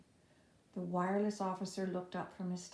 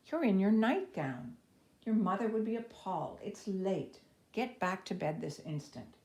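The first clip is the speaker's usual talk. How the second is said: stern scolding; 3 semitones higher, 6 dB louder than usual. Acted. Aunt scolds Sally for running around, sternly. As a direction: scold the girl back to bed.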